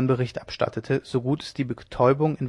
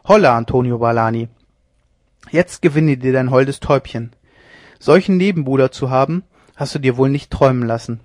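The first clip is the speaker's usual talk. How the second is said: louder, scornful cries; loud gloating; 4 dB louder than usual. Acted. Leone gloating over the found rival, loud scorn. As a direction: gloat then call for the gallows.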